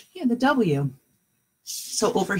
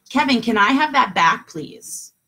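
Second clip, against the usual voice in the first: asking nicely; 4 semitones higher, 4 dB louder than usual. Shown as a demonstration. Teacher showing kids how to ask a brother, polite request. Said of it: "I asked nicely".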